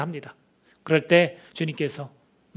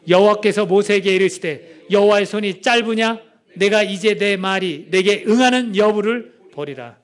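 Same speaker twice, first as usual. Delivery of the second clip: slow, solemn reading of the verse; slow scripture reading; 2 semitones higher, 4 dB louder, slower than usual. Acted. Pastor reads the verse to the congregation, slow and solemn. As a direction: read each word out deliberately.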